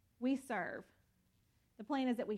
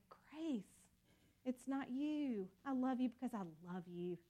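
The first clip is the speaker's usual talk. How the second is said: tender God; 5 dB quieter than usual. Pretend. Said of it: "and you say".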